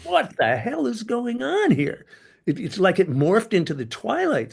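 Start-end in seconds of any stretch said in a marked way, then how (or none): 0.0-2.0 mock bewildered. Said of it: "We're saying".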